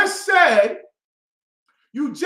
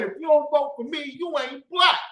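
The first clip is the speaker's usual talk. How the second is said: higher, fast, shouted quote; mock shout; 4 semitones higher than usual. Quoting the president to listeners, mock shout. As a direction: bark the line like a slogan. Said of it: "He straight up said".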